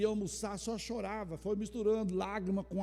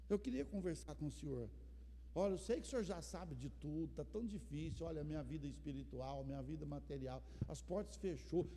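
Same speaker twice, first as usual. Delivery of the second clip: softer, confiding talk to God; soft intimate prayer; 3 semitones lower, 9 dB quieter than usual. Shown as a demonstration. A believer alone in his room, softly praying to God. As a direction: pour out your heart quietly, alone in the room. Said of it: "você senta lá no quarto e fala".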